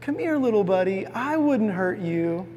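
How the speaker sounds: a hint of a boy sweet-talking an animal; coaxing boy. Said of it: "he says this line where he goes".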